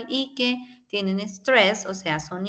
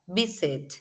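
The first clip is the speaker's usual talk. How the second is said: VI-sit, stepping down; stress on first syllable. Shown as a demonstration. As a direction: stress VI in visit and let it fall. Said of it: "Es como si empezaras alto".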